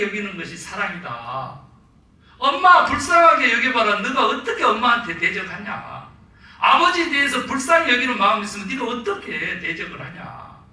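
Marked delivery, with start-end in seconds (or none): 2.4-10.6 loud, higher scolding of the sons. Retold or imitated. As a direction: tell them off hard. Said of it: "그러면서 막 혼났더니". (아들들을 크게 꾸짖는 아빠)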